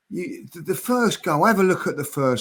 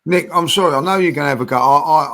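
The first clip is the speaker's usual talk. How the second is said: louder, pushing in over the others; loud apology; 7 dB louder, faster than usual. Real, not acted. Pundit cuts in loudly to apologise to Nick. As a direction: cut in hard with the apology.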